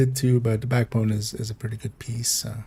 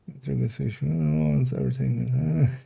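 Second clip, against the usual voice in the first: whispered; 6 dB quieter, much slower than usual. Real, not acted. Reading a chat message softly.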